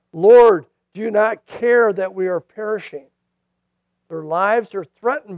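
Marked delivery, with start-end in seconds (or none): 0.1-0.7 a loud desperate call of Lord; cry out. Retold or imitated. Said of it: "They cry out". 0.9-3.1 crying out. Retold or imitated. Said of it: "They cry out".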